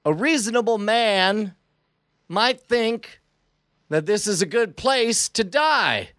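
hammed-up Southern badass monologue; fake Southern drawl. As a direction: lay on a put-on Southern accent, menacing and slow. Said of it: "affecting this totally fake Southern dialect".

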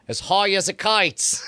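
hammed-up Australian vowels on a quote; mock Australian accent. Host reading an Australian official's quote, mock Australian accent. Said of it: "a government official has said".

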